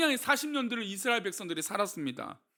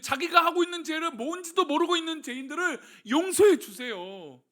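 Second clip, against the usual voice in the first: pleading prayer; 5 semitones higher than usual. Retold or imitated. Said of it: "하나님을 설득합니다".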